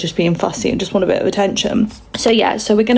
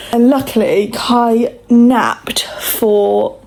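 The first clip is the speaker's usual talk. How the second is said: breathy whisper, barely voiced; 3 semitones higher, much slower than usual. Real, not acted. Baby napping nearby, whispers.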